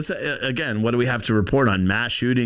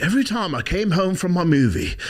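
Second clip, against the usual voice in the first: imitating a weird half-British accent, pitched up; Johnny Depp; 5 semitones higher than usual. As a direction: put on a wandering, part-British accent. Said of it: "he has this weird accent".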